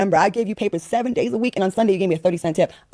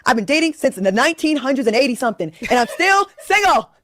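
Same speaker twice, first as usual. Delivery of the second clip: exasperated, higher-pitched comic rant; venting; 4 semitones higher than usual. Real, not acted. Guest tells host she is still single, venting. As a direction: let the frustration spill out. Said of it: "Let me vent".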